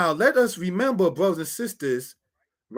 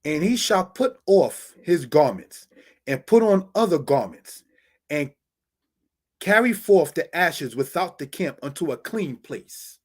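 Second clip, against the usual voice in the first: scripture reading. Acted. Reads scripture verse aloud.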